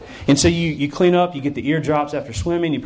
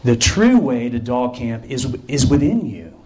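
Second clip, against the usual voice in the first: slow, earnest guru-like group leader; deep sage leader; 3 semitones lower, slower than usual. Acted. Group leader answers a lost camper, mock-profound. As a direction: say it slowly, with mock profundity. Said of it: "looks deeply into your eyes and she says".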